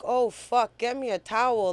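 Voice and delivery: high, loud urgent call; urgent alarm. Retold or imitated. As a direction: demand a towel in a panic. Realizes he is bleeding.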